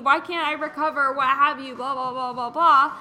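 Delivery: high, loud mock whining about a setback; retold indignant complaint. Host mimics a client with a swollen knee, mock complaining. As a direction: wail it as a put-on "poor me". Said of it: "she's like".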